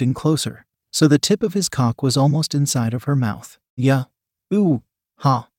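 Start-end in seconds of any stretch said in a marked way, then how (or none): 3.8-5.5 quizzical goat moans. A narrator's reading. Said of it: "The quizzical goat continued".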